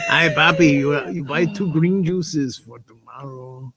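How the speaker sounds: lightly voiced older Hispanic shop lady, slow; slow, drawn-out imitation of a shop lady. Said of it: "the Hispanic lady, she was an older lady".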